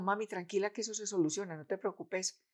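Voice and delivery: softly imitating a calm daughter; quiet, untroubled retold comfort; calm reassurance. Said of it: "Ella se quedó ahí tranquila".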